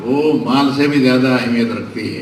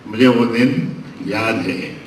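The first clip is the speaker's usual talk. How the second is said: slow wistful echo; 2 semitones lower than usual. Real, not acted. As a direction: sink into the memory. Orator repeats memory line. (धीमे, याद में खोए हुए)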